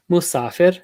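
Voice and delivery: musafir going down on "sa", back up on "fir"; dip on middle syllable. Shown as a demonstration. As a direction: drop on "sa" in "musafir", then rise. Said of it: "going down on sa and then coming back up".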